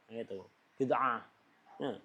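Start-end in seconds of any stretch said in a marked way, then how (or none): 0.8-1.2 "bid'ah" low and soft, the 'ain squeezed as if choking; mock choked 'ain. Preacher mocks an objector, "bid'ah" choked low in the throat. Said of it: "Ente itu tersedak ain".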